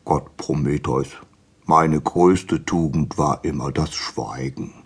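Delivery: lightly voiced fish, low and slow; a touch of a weary sigh. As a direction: draw it out with mild reluctance. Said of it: "blinzelte zweimal mit seinen Augen und seufzte".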